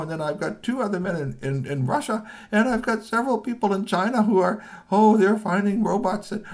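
high, loud flustered excuses; flustered apology. Acted. Ninja chief apologising to boss that men are away, high and flustered. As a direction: scramble to apologise. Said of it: "Ganji-san said".

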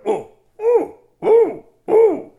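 very high, loud excited ooh; cubs cooing. Acted. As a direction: coo like delighted little cubs. Baby bears delighted.

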